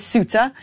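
Suta said SOO-tuh; listener's pronunciation. Shown as a demonstration. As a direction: say Suta in two beats, SOO then tuh. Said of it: "Peter says".

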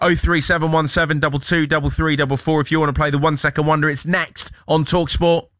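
radio plug. Acted. Radio host plugging the number.

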